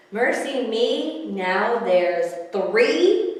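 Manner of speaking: drawn-out dismay; slow dismayed exclaim. Acted. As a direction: sigh it out, aghast. Dismayed at more kitties.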